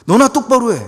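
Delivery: loud, high jab of scorn; scornful retort. Acted. Townspeople telling Jesus off, loud scornful retort.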